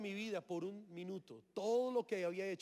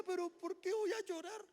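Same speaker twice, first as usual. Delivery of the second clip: fighting tears; 12 semitones higher than usual. Retold or imitated. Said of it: "Pero no aguantaba".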